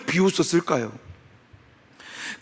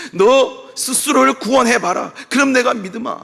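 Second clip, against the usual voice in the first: mocking taunt; 2 semitones higher than usual. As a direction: taunt him like a jeering Roman official. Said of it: "뭐라고 이야기하느냐".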